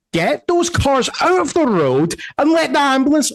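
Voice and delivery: high-pitched commanding call; urgent order. Acted. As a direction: call out orders across the street. Guard barks order to his men.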